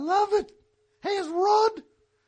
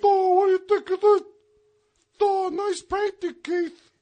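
artist impression; 5 dB louder than usual. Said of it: "your impression's better than mine".

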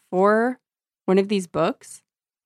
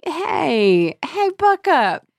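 mock reassuring; 7 semitones higher, 5 dB louder than usual. Jessie cheering up crying Nina, hammed-up reassuring. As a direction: cheer her up in an overdone sing-song. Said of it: "So she's just like".

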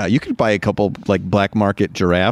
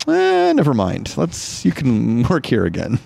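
dismissive shrug; slower than usual. Retold or imitated. Company reverses relocation, shrugging.

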